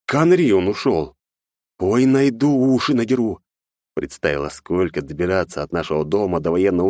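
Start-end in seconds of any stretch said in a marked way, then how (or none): 0.1-3.4 mock-angry muttering; huffy, fed-up mother; exasperated mother. A narrator's reading. Mother angry at runaway son. (раздражённая мать)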